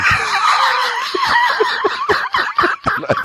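high screaming burst of laughter; shrieking laughter. Real, not acted. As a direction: explode into a squealing laugh.

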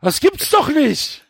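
high, slow, put-on disbelief; mock outrage at the writing; exasperated disbelief. Real, not acted. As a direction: groan at the clumsy prose in mock shock. Reader mocks repeated clichéd line.

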